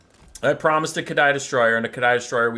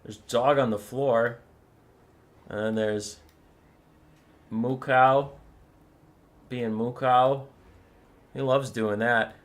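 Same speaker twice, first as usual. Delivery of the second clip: usual speaking voice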